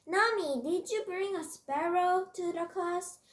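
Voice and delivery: high, loud startled question; high-pitched, incredulous challenge. Acted. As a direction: call out the name, then question her in disbelief. Startled classmate confronts Nami in story.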